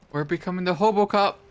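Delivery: loud gleeful proclamation; triumphant shout. Real, not acted. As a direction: announce it proudly. Triumphant joke after finding bottles.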